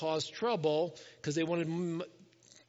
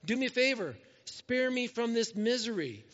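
higher-pitched exasperated plea, mildly acted; frustrated, tired; 4 semitones higher than usual. Moses complaining to God about his load, frustrated plea. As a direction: plead as if fed up. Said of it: "He's frustrated. He's tired".

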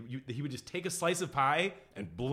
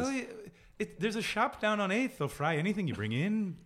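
put-on sing-song Irish accent; 5 semitones higher than usual. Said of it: "the Irish is a bit easier 'cause it's a bit of a sing-song".

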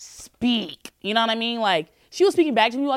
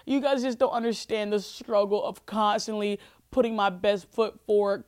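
usual speaking voice

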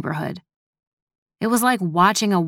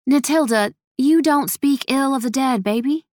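higher-pitched, gently chiding elder; sighing reproach; 7 semitones higher than usual. A narrator's reading. Gertie correcting the girl at dinner, sighing higher-pitched reproach. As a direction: chide her with a sigh, voice lifted. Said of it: "Gertie said with a sigh".

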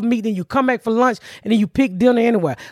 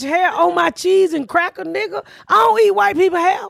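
outraged rant; 5 semitones higher than usual. Retold or imitated. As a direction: lay into them word by word. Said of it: "And I'm like".

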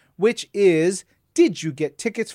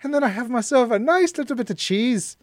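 higher, hammed-up Minnesota accent; 7 semitones higher than usual. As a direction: play a folksy Minnesotan. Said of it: "in this whole entire accent".

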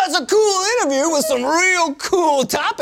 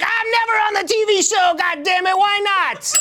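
whiny complaint; 5 semitones higher than usual. Acted. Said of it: "steps in and is like".

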